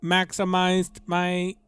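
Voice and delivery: flat machine monotone; robot voice. Acted. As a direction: speak like a cold robot. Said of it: "He's imitating some kind of robot".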